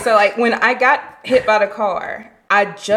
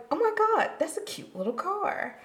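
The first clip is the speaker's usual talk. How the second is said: gushing; 12 semitones higher, 8 dB quieter than usual. Retold or imitated. Gushing over a cute car.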